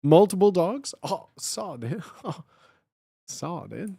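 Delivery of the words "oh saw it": normal talking voice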